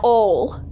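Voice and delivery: ol, slowly, with no D at the end; dropped final D. Retold or imitated. Mimicking grandma's speech, old becomes ol. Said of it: "doesn't pronounce any of the words that end with a D".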